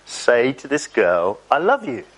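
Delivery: slow, unmoved repeat of the order; lightly voiced God, patiently drawn out. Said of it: "he said".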